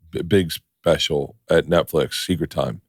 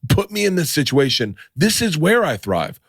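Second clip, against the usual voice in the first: mock pep talk to himself, pitched up; higher-pitched, insistent self-convincing; shut-off self-belief; 4 semitones higher than usual. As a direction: re-enact psyching yourself up, higher than usual. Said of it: "I shut off and was like".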